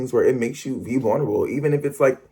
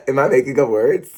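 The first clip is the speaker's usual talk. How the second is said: laughing at herself; 3 semitones higher, 5 dB louder than usual. Real, not acted. Laughing at her own word.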